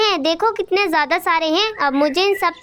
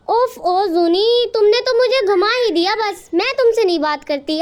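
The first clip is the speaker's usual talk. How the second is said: exasperated mother; 3 semitones higher than usual. Acted. Mother outwitted by her son.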